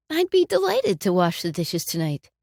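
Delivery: plainly meant, friendly and straight; sincere offer. Shown as a demonstration. Offering a spouse to do the dishes, sincerely. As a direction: offer it like you truly mean it. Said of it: "One is meaningful".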